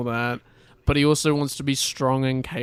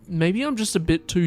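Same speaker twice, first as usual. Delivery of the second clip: voice crack; 5 semitones higher than usual. Real, not acted. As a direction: voice cracking briefly. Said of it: "That voice crack".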